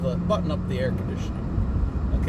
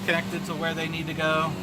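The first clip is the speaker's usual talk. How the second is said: raised voice over the blower noise; yelling over leaf blower; 4 semitones higher than usual. Real, not acted. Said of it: "sorry about the blower in the background".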